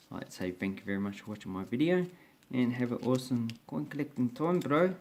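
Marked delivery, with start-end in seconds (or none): 2.5-4.9 put-on New Zealand accent. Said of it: "my New Zealand accent".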